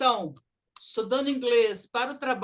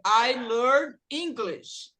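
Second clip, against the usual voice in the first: slow model sentence; much slower than usual. Shown as a demonstration. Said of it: "Verbo aprender".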